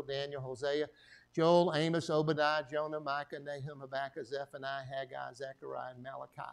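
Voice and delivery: reeling off a memorized list; rattling off the Bible books. Shown as a demonstration. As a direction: recite it like a child who drilled it. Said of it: "memorize the books of the Bible".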